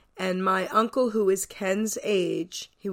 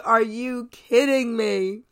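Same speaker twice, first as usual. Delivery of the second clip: uncle amazed; 4 dB louder, slower than usual. Retold or imitated. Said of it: "my uncle was like".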